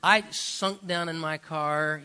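chuckling through the words; laughing at himself. Real, not acted. Pastor laughing at his own story to the congregation. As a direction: laugh it off, sheepish. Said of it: "just thinking about that".

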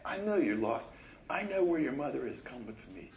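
soft, fading to a whisper; gentle reassurance. Retold or imitated. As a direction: comfort a lost child softly. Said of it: "How about this to her?".

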